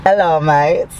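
low mock-Aussie greeting; Australian accent. Shown as a demonstration. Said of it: "that was my Australian accent".

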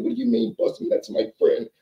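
high, squeaky naive protest; Billy's voice. Retold or imitated. Billy protests high that the man is his friend. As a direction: lift the voice up high, baffled.

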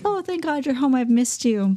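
feigned excitement. Retold or imitated. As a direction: gush as if thrilled they're home, putting it on. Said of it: "so excited that he's home".

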